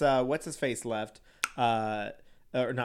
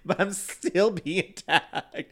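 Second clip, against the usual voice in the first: mock offended; 5 semitones higher than usual. Real, not acted. Mock defence, laughing.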